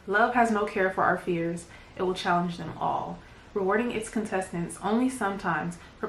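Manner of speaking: measured spoken-word reading, phrase by phrase; poem recitation. Acted. Poet shares her Fear Factor poem with viewers, measured recitation. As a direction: recite each line evenly, letting it land. Reads own poem aloud.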